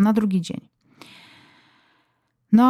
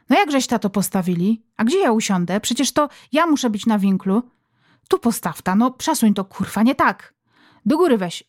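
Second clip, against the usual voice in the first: mother bossing husband while he moves the table; bossy mother. Acted. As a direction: nag him about the new carpet.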